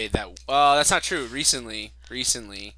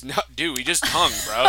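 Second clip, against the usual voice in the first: loud, high dude bro; frat bro; 3 semitones higher, 10 dB louder than usual. Pretend. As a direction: brag like a frat guy. Acting bro boyfriend dialogue.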